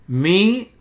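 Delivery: "Mi-ha-yehu" loud and split syllable by syllable; demonstrated pronunciation. Shown as a demonstration. Teacher showing viewers the Hebrew name, sounded out by syllables. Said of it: "Mírenlo aquí, miren".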